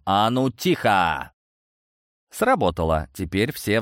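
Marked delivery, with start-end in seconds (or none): 0.0-1.3 booming command. Acted. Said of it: "прогремел".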